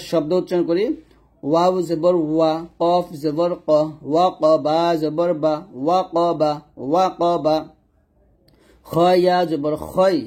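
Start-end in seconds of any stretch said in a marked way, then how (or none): 1.4-7.5 ক heavy with rounded o between ওয়া and বা; thick qaf in spelling. Shown as a demonstration. Teacher spells out a word, thick qaf. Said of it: "এরকমভাবে এই সাতটা হরফ মোটা করে". 8.8-10.2 খই with rounded o, heavy in the throat; thick khoi. Shown as a demonstration. Teacher models the correct word, thick khoi. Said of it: "খই বলতে হবে".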